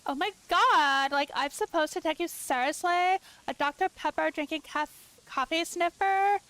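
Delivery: lightly voiced sneering streamer; Ramblin's voice. Streamer mocks her moderator's chat message in a snooty voice. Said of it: "read it the way I would sound coming from Ramblin'".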